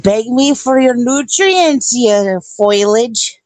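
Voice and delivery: slow, drawn-out villain voice; slow mock-menacing taunt. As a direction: lord it over the plants slowly. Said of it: "I said".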